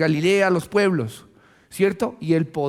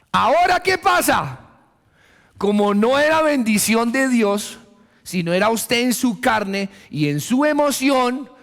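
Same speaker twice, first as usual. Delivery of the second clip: forceful preaching; 5 semitones higher, 3 dB louder than usual. Acted. Preaching climax.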